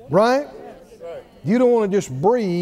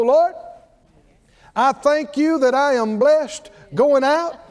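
model prayer; 4 semitones higher than usual. Acted. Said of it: "sit there and go".

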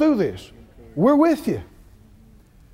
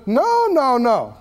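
God questioning; 2 semitones higher than usual. Acted. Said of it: "And then the Lord said".

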